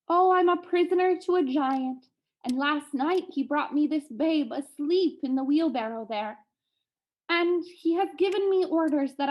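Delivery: lightly voiced woman pleading her plight; distressed captive woman.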